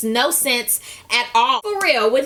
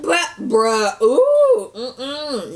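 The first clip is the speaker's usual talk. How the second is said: ooh pitched up through laughter; laughing in shock; much slower than usual. Real, not acted. Recapper laughing at the ultimatum. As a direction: crack up in disbelief.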